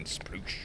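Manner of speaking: a breathy whispered splash sound; mock splash sound. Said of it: "throw him back in the ocean".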